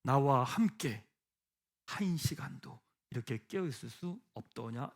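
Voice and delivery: very slow and soft, each phrase weighed with sorrow; slow, grieving question. Shown as a demonstration. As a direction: let 나와 함께 and 한 시간도 linger quietly, a sad heartfelt question. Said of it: "이렇게 읽으셔야 됩니다".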